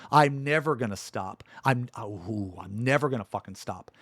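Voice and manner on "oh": usual speaking voice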